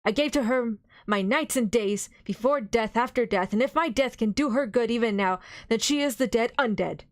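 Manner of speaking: pleading, compassionate appeal; full of pity. Acted. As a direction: beseech him with tender pity. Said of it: "with an accent full of pity".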